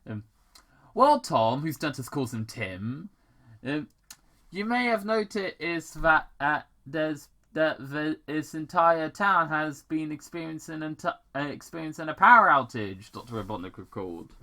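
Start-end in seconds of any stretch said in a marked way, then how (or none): 1.0-1.6 villain address. Acted. Robotnik addressing Tom. 4.5-13.1 higher, louder condescending voice; haughty villain. Acted. Robotnik explaining the outage to Tom, haughty and higher.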